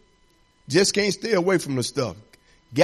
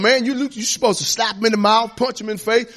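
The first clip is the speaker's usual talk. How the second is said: mock street advice; 4 semitones higher than usual. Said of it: "They out there telling".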